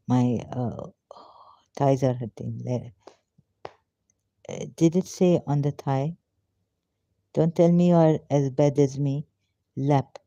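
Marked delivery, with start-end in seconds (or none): none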